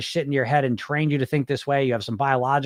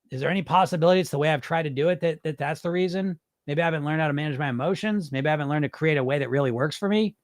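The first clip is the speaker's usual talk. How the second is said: softer, reasonable self-talk; acted calm inner coach, tentative and reasoning; calm, rational coach; 4 dB quieter, faster than usual. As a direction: gently offer another possibility, unruffled. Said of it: "calm, rational perspective, developing your coach voice".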